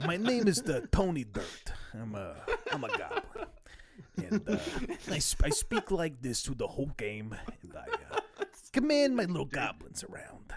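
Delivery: put-on Italian gangster accent. A player introduces his goblin character in the game, Italian mob accent. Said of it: "like a gangster accent kind of thing. Italian mob".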